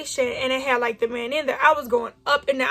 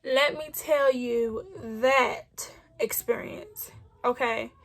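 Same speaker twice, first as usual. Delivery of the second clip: hushed teaser; 5 dB quieter, slower than usual. Real, not acted. Teasing the next part.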